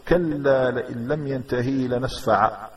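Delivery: slow recitation, "لنسفعا" ending in long a without n; stop on alif. Shown as a demonstration. Teacher showing how to stop in recitation, final alif. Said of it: "إذا وقف أن ينطقها".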